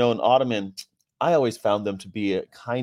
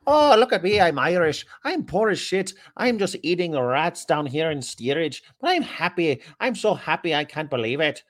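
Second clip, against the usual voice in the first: lilting, higher-pitched mock Irish voice; mock Irish accent; 7 semitones higher than usual. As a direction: put on a thick, hammed-up Irish accent. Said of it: "all the poor people have these thick accents".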